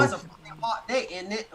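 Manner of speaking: badly attempted British accent; amateur mock-British. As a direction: try a British accent, playfully. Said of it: "I can't do the accent".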